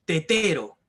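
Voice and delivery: "tetero" drawn out, with TE-RO split by a long stressed second TE; teacher sounding out "tetero", second syllable stressed; stress on middle syllable. Shown as a demonstration. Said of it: "cargar más nuestra voz".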